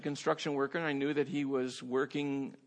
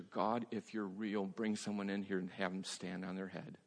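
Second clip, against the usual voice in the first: much softer, lower, hushed retelling; hushed telling; 5 semitones lower, 8 dB quieter than usual. Retold or imitated. Preacher hushing as he retells the cashier's confession. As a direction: draw the room in with a soft voice.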